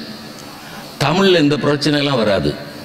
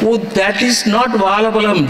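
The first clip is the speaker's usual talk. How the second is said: mock English gentleman, higher and quick; Englishman correcting; 7 semitones higher, much faster than usual. Englishman correcting a Tamil man, lightly mocked and higher. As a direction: lightly play a prim Englishman setting him right. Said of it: "An Englishman is correcting a Tamil man".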